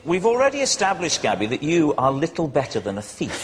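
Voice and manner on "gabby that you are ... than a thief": ordinary talk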